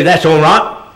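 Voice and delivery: Cockney "That's all right." with the T of "right" dropped; light Cockney, swallow the final T in "right". Shown as a demonstration. Actor demonstrating Cockney to an audience, dropping the T in "right". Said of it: "they leave off like a Cockney".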